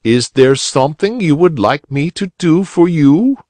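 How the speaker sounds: a gentle bow in the voice; polite bow. A narrator's reading. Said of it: "he asked with a polite bow".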